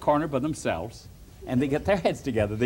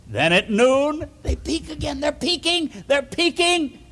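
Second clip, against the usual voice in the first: rising suspense; 9 semitones higher than usual. A narrator's reading. Suspense of spies peeking.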